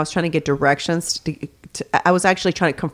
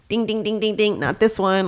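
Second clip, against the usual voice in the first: alarm bells. Retold or imitated. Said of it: "something inside me goes like".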